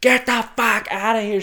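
high, loud shout to chase someone off; big mock holler; acted angry shout. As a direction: yell it like an irate store worker. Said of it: "She just starts shouting at this homeless guy".

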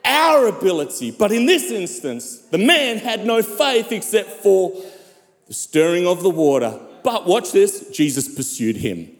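emphatic sermon delivery with long dramatic pauses; preaching. Acted. Pastor telling the church of a healing miracle, preaching. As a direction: preach it in swelling, weighted phrases.

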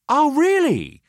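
amused challenge; Pelham, sceptical. Acted. Pelham to Clive, archly doubting his objection. Pelham voiced, raising eyebrow.

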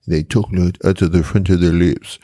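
mock French from France accent. Explaining how the French talk, imitated French accent. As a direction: talk off the front of the lips, French-style. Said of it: "He said the French".

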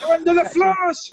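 high squeaky rat voice; rat impersonation. Pretend. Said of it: "a second career as a, as a rat impersonator".

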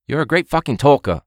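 high mock chef sneer; sarcastic TV chef jab; a bad Gordon Ramsay impression; terrible Gordon Ramsay. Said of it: "This is terrible Gordon Ramsay".

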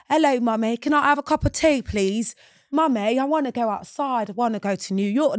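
exaggerated British kid pleading with mummy; mock British accent. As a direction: put on a Peppa Pig British child voice. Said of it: "British accents".

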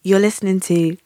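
sexy voice. Pretend. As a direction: purr it like a late night DJ. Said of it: "I have to get my sexy voice on".

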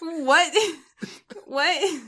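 high puzzled what; baffled and amused; confused what. Retold or imitated.

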